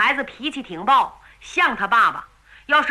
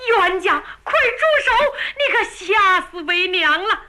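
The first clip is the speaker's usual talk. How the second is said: frightened cry; 6 semitones higher than usual. A narrator's reading. Mother wrestling the sword from her son, panicked high cry. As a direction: scream at him to stop.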